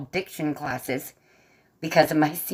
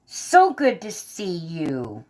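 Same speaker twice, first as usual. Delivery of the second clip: slow, drawn-out fond welcome; affectionate greeting; much slower than usual. Real, not acted. Streamer welcoming a friend to the stream, affectionate. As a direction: stretch each word out with affection.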